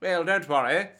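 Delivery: lightly put-on posh English; posh English accent. Prosciutto brushes off Pesci's worry, posh English accent. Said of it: "why do I keep doing posh for Prosciutto".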